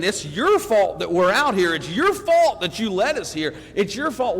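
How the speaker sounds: acted-out griping with punched accusations; accusing complaint. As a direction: hammer out the blame on "your". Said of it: "they start complaining".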